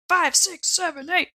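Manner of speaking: counting up through a laugh; giggling out the numbers. Real, not acted.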